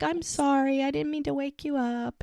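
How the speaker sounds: high-pitched apology, retold; lightly acted sorry for waking him; apologetic.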